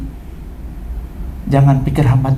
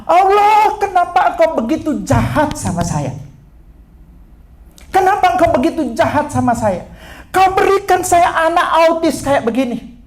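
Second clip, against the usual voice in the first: high-pitched wail of an exhausted mother; imitated weeping complaint, pitched way up; tearful lament; 11 semitones higher than usual. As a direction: cry out to God in acted anguish. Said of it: "Dia sambil nangis, dia bilang begini".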